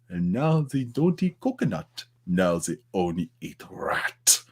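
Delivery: lightly voiced Silver, slowing to a hushed end; a hint of the villain musing to Bond; Silver impression. Bond fan doing Silver for his live chat. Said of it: "I'll try a Silver".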